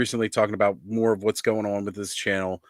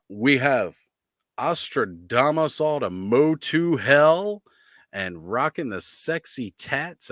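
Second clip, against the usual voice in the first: announcer voice; 4 semitones higher than usual. Acted. Slow announcer intro of co-host.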